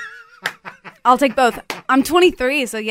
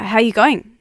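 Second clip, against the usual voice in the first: attempted Aussie accent; Australian accent; 3 semitones lower than usual. Shown as a demonstration. American guest showing her favourite Australian expression, attempted Aussie accent. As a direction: try a casual Australian phrase with an Aussie accent. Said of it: "What's your favourite Australian expression?".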